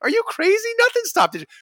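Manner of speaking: a hammed-up are you kidding me; incredulous retort. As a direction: scoff at the very idea. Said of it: "I'm like".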